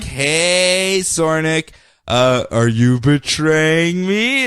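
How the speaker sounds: lightly acted, drawn-out questioning; Sinestro. Villain confronting his Green Lantern, questioning. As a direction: stretch out the accusing question in mock suspicion. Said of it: "Sinestro's like".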